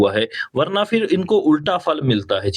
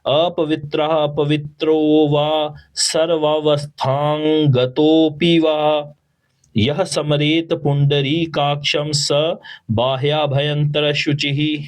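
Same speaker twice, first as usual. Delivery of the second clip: slow, clear recitation for students to copy; call and repeat; slower than usual. Shown as a demonstration. Teacher leads the students to repeat after him. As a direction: say it slowly so they can follow. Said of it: "मेरे पीछे पीछे बोलिए".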